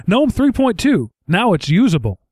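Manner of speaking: a hint of a proud marketing pitch. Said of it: "how the marketing meeting went".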